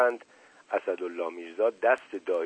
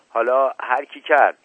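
louder exasperated shout; 3 semitones higher, 7 dB louder than usual. A narrator's reading. Asadollah scolding the son, louder shout. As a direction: yell at the fussing son. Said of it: "فریاد زد".

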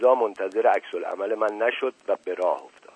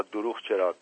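head down, quietly mumbled excuse; sheepish mumble; 5 dB quieter than usual. Acted. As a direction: mumble it softly, a bit ashamed. سر را به زیر انداخت. (زیرلبی و شرمنده)

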